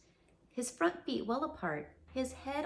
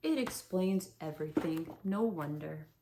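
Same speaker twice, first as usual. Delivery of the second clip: gloomily; 5 semitones lower than usual. Acted. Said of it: "said Eeyore gloomily".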